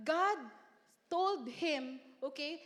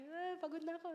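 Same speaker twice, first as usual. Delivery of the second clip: mock tearful sigh; 3 semitones higher, 5 dB quieter, faster than usual. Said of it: "and then she was crying".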